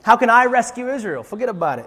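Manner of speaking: mock Italian-American protest; comic Italian-accented brush-off. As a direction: play it as a hammed-up Italian wise guy. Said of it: "he's Italian all of a sudden".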